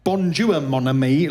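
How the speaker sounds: mock mangled French; badly faked French greeting; bad French accent. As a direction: do deliberately terrible French. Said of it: "his is the equivalent of".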